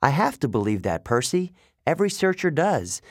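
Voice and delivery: hopeful satyr. Acted. Grover on belief.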